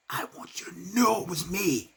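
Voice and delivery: a soft, chilling assassin's reveal; quiet menace. Acted. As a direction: lean in and let him know it was you. Assassin voiced after strike.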